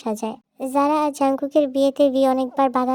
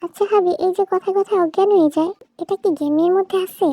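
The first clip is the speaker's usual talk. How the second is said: lightly voiced curious girl, pitched up; naive child wife; 5 semitones higher than usual. Zara asking her husband about the game, naive and curious. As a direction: ask innocently in a higher voice.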